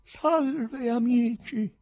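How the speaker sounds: high, loud hail to friends; ringing high-pitched salutation; loud greeting. A narrator's reading. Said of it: "disse forte".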